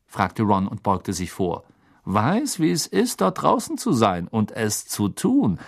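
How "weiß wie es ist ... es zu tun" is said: earnest, insistent, pitch rising early; intense, meaningful emphasis; urgent. A narrator's reading. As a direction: impress it on the listener. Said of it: "sagte George eindringlich".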